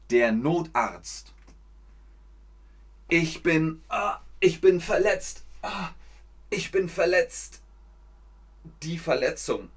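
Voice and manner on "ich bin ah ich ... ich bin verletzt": mock injured cry. Teacher acts injured caller.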